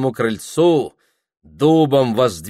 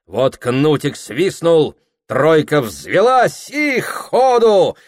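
excited narration; 7 semitones higher, 5 dB louder than usual. A narrator's reading. Narration rising to excited ride.

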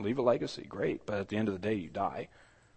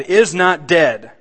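loud, raised, drawn-out proclamation; majestic funeral cry; 5 semitones higher, 9 dB louder, much slower than usual. Retold or imitated. Funeral preacher heralding victory over death, majestic cry. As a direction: declare it grandly, word by word. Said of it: "lifts up his majestic voice".

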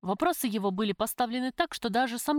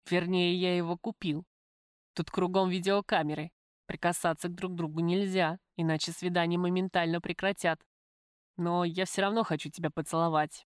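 lightly voiced man, slightly lowered; lover's voice, earnest; 2 semitones lower than usual. Lover explains the visiting rules to the prisoner, earnest. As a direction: speak as the visiting lover, even and confidential.

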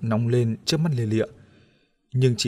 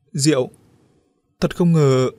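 surprised; 3 semitones higher, 6 dB louder, slower than usual. Acted. Gặp lại Diệu bất ngờ.

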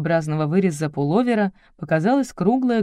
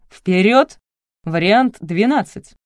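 loud command; 2 semitones higher, 7 dB louder, slower than usual. A narrator's reading. Photographer commands the cat.

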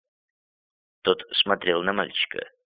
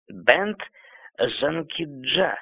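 put-on quavering old man's call, drawn out; 5 semitones higher, much slower than usual. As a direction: call the servant like a shaky elder. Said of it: "дребезжащим голосом крикнул старик". (дребезжащий старческий окрик)

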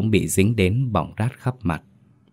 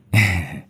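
ingratiating laugh. A narrator's reading. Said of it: "cười lấy lòng".

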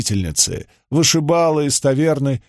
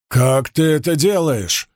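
hollow, muffled under a helmet; echoing voice inside helmet; 2 semitones higher than usual. Acted. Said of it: "его голос прозвучал гулко из-под шлема".

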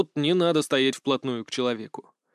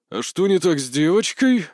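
a touch of menace, louder; threatening; 2 semitones higher, 4 dB louder than usual. Acted. Dorant Dero questions the guest, mildly threatening. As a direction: ask it as a veiled threat. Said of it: "с угрозой спросил".

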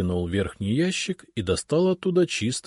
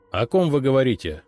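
demanding; 4 semitones higher, 4 dB louder than usual. Acted. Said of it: "требовательно спросил я".

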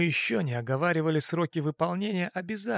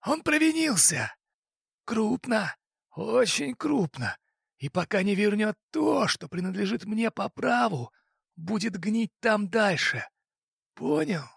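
angry boss; 7 semitones higher than usual. Acted. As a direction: slam the table and rage at him. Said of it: "Авторитет рыкнул".

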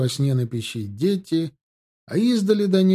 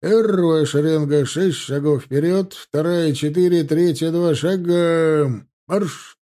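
louder, slow parade-ground orders; drill command; 4 semitones higher, 7 dB louder than usual. A narrator's reading. Officer drilling his ranks, loud commands. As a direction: call the drill across the ranks.

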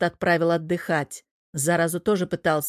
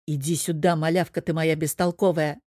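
tender. Acted. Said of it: "оттаял чёрт".

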